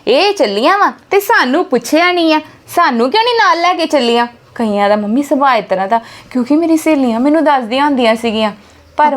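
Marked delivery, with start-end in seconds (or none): 0.1-4.3 imitating a sulking mother-in-law, a little higher; mock offended grumble at being left out; hammed-up jealous complaint; sulky mother-in-law. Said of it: "ਨਾਲ ਹੀ ਮੂੰਹ ਬਣ ਜਾਂਦਾ".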